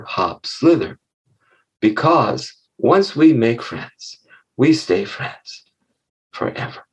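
measured storyteller, slowing to a hushed ending; storytelling. Acted. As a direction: bring the fable to a gentle, slow close. Closes the story.

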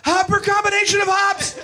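high, breaking-up mounting excitement; fevered beer lecture. Acted. Brian reciting beer facts during sex, increasingly fevered, high and halting. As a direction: lecture in halting bursts, building toward climax.

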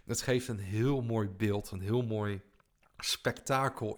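slow, deliberate second attempt; careful retry. Real, not acted. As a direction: say it slowly and get it right. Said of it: "dit komt wel heel erg slecht mijn mond uit". (langzaam en zorgvuldig opnieuw)

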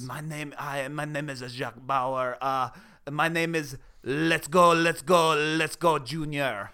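badly faked French accent; attempted French accent. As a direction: have a halting go at a French accent. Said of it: "That sounded French".

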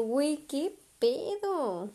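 slow disbelief. Retold or imitated. Reacciona incrédula en el sueño.

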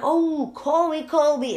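high, loud falling oh-that-one; the penny drops; dawning realization. Retold or imitated. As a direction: mom finally realizing who Kobe is. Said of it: "I'm like".

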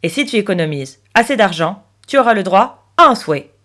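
emphatic pig character, explaining; lightly voiced talking pig. Piggy bank telling Chloé about a wish, emphatic.

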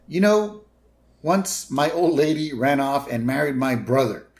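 high, loud spaced-out dude voice; a cheerful burnout oversharing; stoner bus driver. Retold or imitated. Otto voiced in retold scene.

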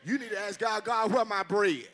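loud, high, shouting climax of the sermon; fired-up preacher shouting at the congregation; shouted preaching. Acted. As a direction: preach it at full force to the crowd.

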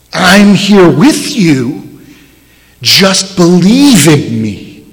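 slow, gentle reassurance; tender Jesus speaking to disciples; very politely. Retold or imitated. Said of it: "very politely".

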